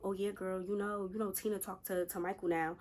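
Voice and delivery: casual soft aside in a friend's voice; confiding gossip. Retold or imitated. Hypothetical friend passing on gossip.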